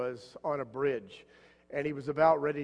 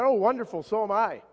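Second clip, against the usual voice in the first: mock delight; 6 semitones higher, 7 dB louder than usual. Samaritan delighted, joke punchline.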